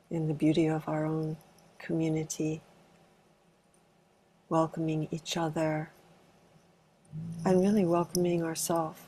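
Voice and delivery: calm, unhurried meditation guidance with long pauses; spacious meditation leader's delivery; guided meditation. Acted. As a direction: gently guide a group into arriving, leaving space between phrases. Leads an arriving meditation.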